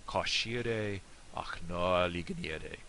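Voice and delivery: slow Irish toast in a southern accent; southern Irish dialect. Shown as a demonstration. Teacher putting the toast together, southern Irish dialect. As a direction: say it slowly with open, rounded southern Irish vowels. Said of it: "The southern one".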